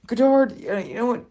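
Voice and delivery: high-pitched building anger; high strained indignation; worked-up rant. Real, not acted. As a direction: wind yourself up. Building fury at Godard.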